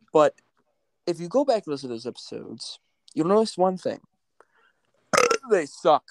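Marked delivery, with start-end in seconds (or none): 3.1-6.0 a hushed secret aside; whispering. Acted. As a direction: lean in and whisper it. Conspiratorial aside to listeners.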